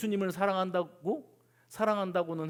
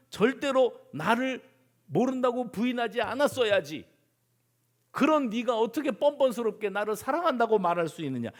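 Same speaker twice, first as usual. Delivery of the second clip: acted scolding, rising in pitch and force; stern rebuke; 5 semitones higher, 4 dB louder than usual. Imagined Jesus takes Peter to task for denying him, scolding. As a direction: lay into the disciple, building to a high pitch. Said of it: "예수님이 책망을 하셨어야 된다는 거예요".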